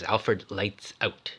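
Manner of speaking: soft, slow spoken command; a drowsy order to the house system; slow command to computer. Retold or imitated. Woman telling the house computer to turn lights off, slow and soft. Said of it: "she says".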